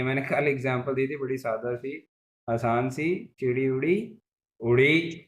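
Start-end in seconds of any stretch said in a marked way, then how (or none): 3.4-5.3 "उड़ी" lifting upward at the end; rising tone. Shown as a demonstration. Teacher gives simple bird example, rising tone. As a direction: let "उड़ी" climb like the bird. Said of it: "हमेशा ऊपर जाती है".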